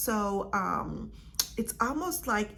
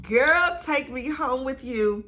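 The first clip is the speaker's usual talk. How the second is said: put-on higher, loud burst on "Girl"; perfume calling out; 3 semitones higher, 5 dB louder than usual. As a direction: call out as the irresistible perfume. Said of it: "And it was given".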